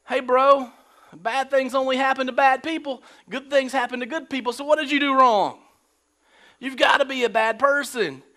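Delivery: lightly voiced smug friend; preachy bro friend. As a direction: lecture him like a smug buddy.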